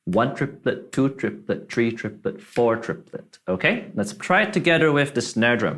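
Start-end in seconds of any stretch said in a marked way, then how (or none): 0.1-3.4 accent the number in each "triplet" count; stress on downbeats. Shown as a demonstration. Teacher counts hi-hat triplets, stress on "One", "two", "three", "four". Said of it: "we're gonna accent every down bit".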